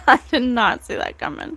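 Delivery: laughing in disbelief; astonished laughing repeat. Real, not acted. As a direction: say it with an amazed laugh.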